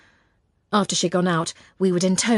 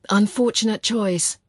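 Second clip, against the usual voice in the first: mother's cold murmur; 4 semitones higher, slower than usual. Retold or imitated. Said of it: "she would murmur with that glacial stare".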